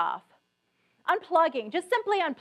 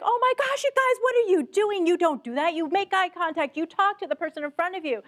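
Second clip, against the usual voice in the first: exasperated scolding; 5 semitones higher than usual. Retold or imitated. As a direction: scold the staff in disbelief. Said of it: "afterwards I'm like".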